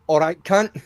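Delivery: mock Scottish greeting. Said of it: "every time you log into Welcomes".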